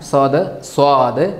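സ്വാദ് said twice, stretched and careful; slow letter demo. Shown as a demonstration. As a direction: spell out സ്വാദ് slowly for the class, each syllable held. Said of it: "pronounced സ്വാദ്".

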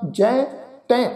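put-on ਜੈ ਤੈ with nasalized vowels, old way; nasal bindi pronunciation. Shown as a demonstration. Teacher demonstrating old pronunciation of ਜੈ ਤੈ. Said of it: "ਨਾਲ ਬਿੰਦੀ ਲਾ ਕੇ ਉਚਾਰਨ".

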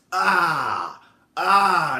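drawn-out stalling "ahhh"; mock hesitation groan, held long; caught-out "ah". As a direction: stretch out an awkward "ah". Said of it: "that's when that comes out".

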